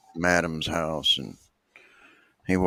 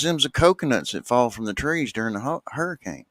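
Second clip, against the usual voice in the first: mock matter-of-fact; 6 semitones higher than usual. Big woman answers in joke.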